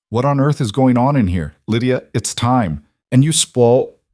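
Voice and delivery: loud, indignant matron; scolding. Acted. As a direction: bark at the intruder. Brennan bursts in scolding.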